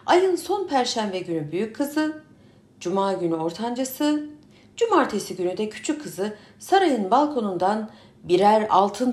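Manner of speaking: calling out loud to the crowd; booming public announcement; town crier. Acted. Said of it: "diye bağırmışlar".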